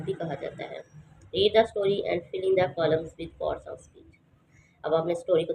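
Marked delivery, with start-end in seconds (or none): 1.3-4.0 slow, careful textbook read-aloud. Acted. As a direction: read the English line slowly for the class. Reads textbook instruction aloud.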